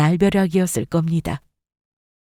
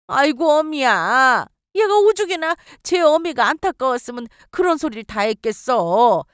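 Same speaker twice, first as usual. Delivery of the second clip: pleading mother-in-law; 4 semitones higher than usual. Acted. Mother-in-law begging daughter-in-law.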